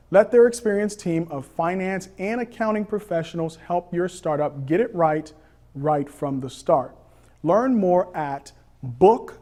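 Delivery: upbeat podcast ad read; sponsor ad read. Acted. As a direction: sell the sponsor smoothly and clearly. Host reads sponsor ad.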